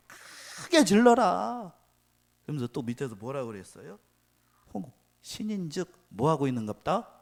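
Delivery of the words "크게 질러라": slow, drawn-out mocking shout. Elijah taunting Baal's prophets with a slow mocking shout. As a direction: bellow it slowly to mock.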